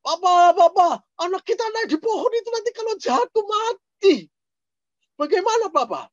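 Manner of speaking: high, loud pleading cry to her husband; shrill-free frantic wife calling papa; mother begging the father to fetch their son from the tree, high and frantic; panicked mother. Retold or imitated. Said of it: "Mamanya teriak-teriak".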